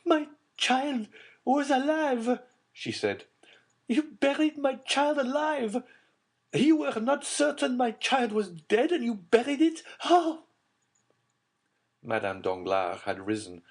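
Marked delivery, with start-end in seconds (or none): 0.0-2.4 high, slow anguished exclamation; exclaimed. A narrator's reading. Mother confronting Villefort over her buried child, high anguished cry. 3.9-10.4 horrified mother. A narrator's reading. Mother accusing Villefort, horrified.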